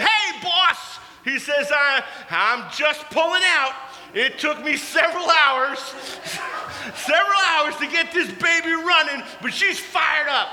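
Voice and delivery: high, loud, eager buddy on his bike; mock-shouting over a running motorcycle; excited Caleb. Caleb shouting to his pastor over the engine, excited.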